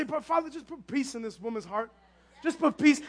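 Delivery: re-enacted hushed plea to God; quiet retold prayer. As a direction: pray it quietly to yourself. Acts out quiet prayer at work.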